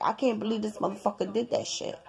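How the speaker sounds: soft, quick retold private gripe; hushed, hurried inner complaint; muttering to self. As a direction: grumble it to yourself in disbelief. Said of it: "I'm saying to myself".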